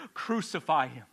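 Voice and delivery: crowd shout. Acted. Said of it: "they cried out".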